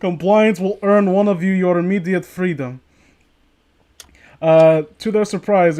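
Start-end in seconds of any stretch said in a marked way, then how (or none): 0.0-2.8 mock official announcement. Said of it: "they announced".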